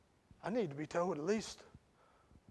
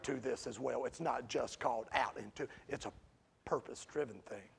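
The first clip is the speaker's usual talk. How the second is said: casual paraphrase of Paul; 6 semitones lower, 3 dB quieter than usual. Retold or imitated. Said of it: "You know what he was saying to them?".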